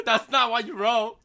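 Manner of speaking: amused slow insistence through laughter. Real, not acted. Teasing a friend over his typo, laughing. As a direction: drag it out while laughing at him.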